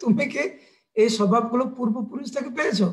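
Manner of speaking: mildly cross questioning; a touch of maternal anger; angry mother. Acted. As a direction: press the child for an answer. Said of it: "মা যশোদা রেগে রেগে বলছে".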